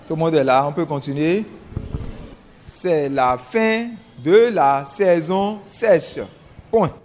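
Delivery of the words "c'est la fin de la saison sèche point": slow, chunked dictation; dictating. Shown as a demonstration. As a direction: dictate each phrase slowly. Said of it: "je vais lire une première fois".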